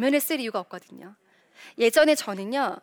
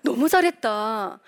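delighted mother's praise; 4 semitones higher than usual. Acted. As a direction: act out an amazed, proud mom. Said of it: "엄마가 어떻게 줘야 돼요?".

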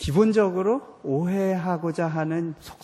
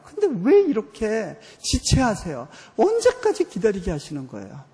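raised, louder, higher plea to God; pleading complaint to God; 6 semitones higher, 5 dB louder than usual. Retold or imitated. Retold complaining prayer to God. (하나님께 높고 크게 하소연하는 기도)

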